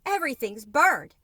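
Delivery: high, loud wail of despair; despairing cry. A narrator's reading. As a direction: cry it out as if all is lost. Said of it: "she sobbed".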